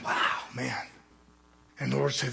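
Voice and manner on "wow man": soft, understated wonder; hushed awe. Retold or imitated. Young minister looking at a perfect church, hushed awe. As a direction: retell a quietly awed reaction.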